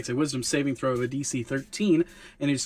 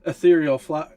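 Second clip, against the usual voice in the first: raised, emphatic showman's sales patter; rabble-rousing pitch; 3 semitones higher, 5 dB louder than usual. Acted. Hawker presenting an enchanted flask to the crowd, rabble-rousing pitch. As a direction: hawk it grandly to a gathered crowd. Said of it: "about to do a performance to get everybody's attention".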